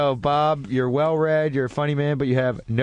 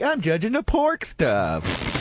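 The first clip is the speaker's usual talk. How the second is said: ham hands character; 3 semitones higher, slower than usual. Retold or imitated. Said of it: "been ham hands, like".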